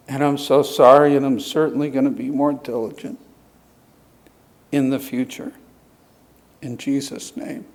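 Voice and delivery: earnest pastoral prayer voice; closing prayer. Real, not acted. Pastor praying over the congregation at the close, earnest. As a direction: lead the church in prayer, steady and humble.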